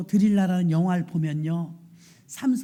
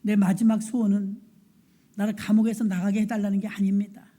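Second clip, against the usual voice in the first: solemn prayer. Acted. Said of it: "삼손이 이렇게 기도합니다".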